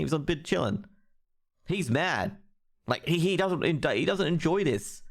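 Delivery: heated indignation, voice climbing; genuinely worked up. Real, not acted. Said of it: "that's how pissed off I'm at".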